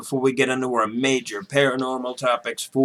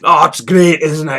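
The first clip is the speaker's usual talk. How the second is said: whisper; 5 dB louder than usual. Real, not acted. Whispered retort.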